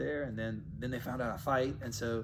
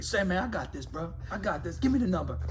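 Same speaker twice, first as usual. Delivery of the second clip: a hood New Orleans buddy, lightly voiced and slightly higher; brash friend taking over, half-acted; Ernest's voice; 5 semitones higher than usual. Retelling how his brash buddy talked, lightly voiced. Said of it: "I could do this voice".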